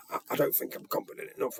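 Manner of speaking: nervous stammer. Retold or imitated. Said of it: "You mean your arse is dropped?".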